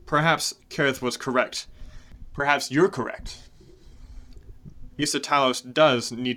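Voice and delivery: wounded pride turning into contempt; angry Cyanidel. Acted. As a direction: berate Morlinde for allowing this. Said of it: "He says".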